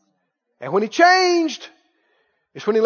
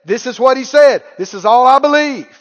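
firm declaration; 5 dB louder than usual. Retold or imitated. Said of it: "you just say".

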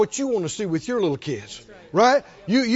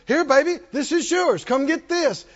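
higher, lightly acted parent calling a small child; parent offering a gift; 6 semitones higher than usual. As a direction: offer it eagerly to a toddler.

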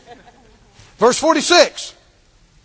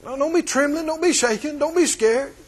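gentle comfort; 3 semitones higher, 5 dB quieter than usual. Acted. Jesus comforts the woman.

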